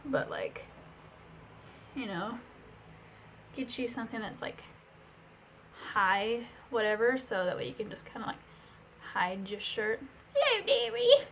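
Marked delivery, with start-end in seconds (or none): 0.1-2.4 breathy whispered aside. Real, not acted. 10.3-11.3 high sweet granny greeting; elderly singsong. Acted.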